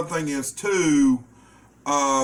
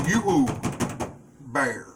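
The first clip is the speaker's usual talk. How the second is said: southern drawl. Real, not acted. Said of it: "my southern accent".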